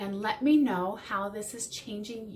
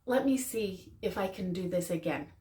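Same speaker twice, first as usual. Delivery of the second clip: gentle apology. Shown as a demonstration. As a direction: say sorry gently to your partner. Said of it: "must include an apology".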